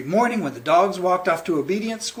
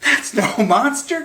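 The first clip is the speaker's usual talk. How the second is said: crying out; 5 semitones higher, 3 dB louder than usual. Acted. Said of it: "cried Oscar".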